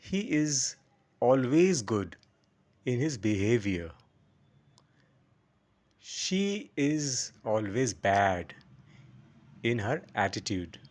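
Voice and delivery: slow, spaced example with quick "good" and long "bad"; short good, stretched bad. Shown as a demonstration. Teacher giving example sentences, short good and stretched bad. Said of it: "এই স্ট্রেচিংয়ে আর এই short করে দেওয়াতে".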